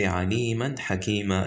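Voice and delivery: "aliman" keeps its n, "hakima" ends open; continuous reading. Shown as a demonstration. Teacher showing how to read on without stopping, continuous reading. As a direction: run "aliman" on into "hakima" with the n sounded. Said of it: "because we're continuing".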